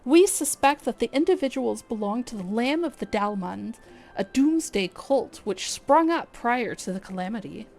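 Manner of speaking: lightly voiced stately guild leader, measured; brief the adventurers with courteous gravity; Lewin, formal commander. Streamer voicing the guild leader's mission briefing, lightly formal.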